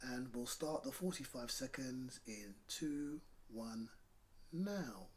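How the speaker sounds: whispered count down to silence; fading quiet countdown. Real, not acted. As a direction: settle them into stillness.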